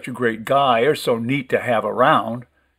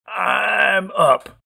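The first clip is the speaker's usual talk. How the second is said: triumphant call; 7 semitones higher than usual. A narrator's reading.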